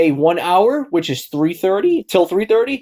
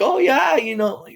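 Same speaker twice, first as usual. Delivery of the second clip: mock agreement; 10 semitones higher than usual. Imitating shop steward agreeing.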